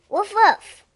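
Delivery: loud, high playful woof; dog bark. Acted. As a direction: bark it like a puppy. Dog barking in picture book.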